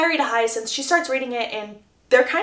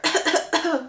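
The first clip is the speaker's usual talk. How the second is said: acted little coughing fit; put-on cough; 5 semitones higher than usual. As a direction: fake coughing to back up an excuse. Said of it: "I had a cough".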